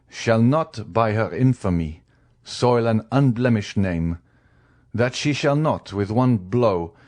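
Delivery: measured, emphatic pronouncement in short phrases; lightly voiced severe husband; stern magistrate. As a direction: lay down the verdict phrase by phrase. Magistrate pronounces on his wife.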